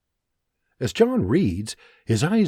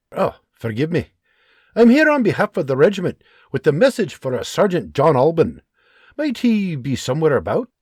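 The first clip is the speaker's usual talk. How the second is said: polite higher soldier voice; apologetic messenger; lightly voiced Scottish soldier; 5 semitones higher, 4 dB louder than usual. Soldier character voice.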